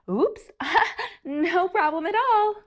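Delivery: high, overly sweet and polite; syrupy people-pleaser; sugary sweet voice. Acted. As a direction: chirp it out with fake sweetness. Sweet grape acting sweet.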